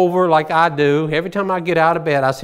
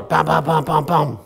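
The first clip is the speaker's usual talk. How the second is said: knocking sound. Retold or imitated. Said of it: "Knocking on that door".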